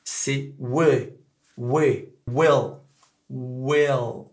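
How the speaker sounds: will with the vowel near é; will, open short vowel; will à l'américaine; correct vowel. Shown as a demonstration. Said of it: "c'est pas we, c'est we".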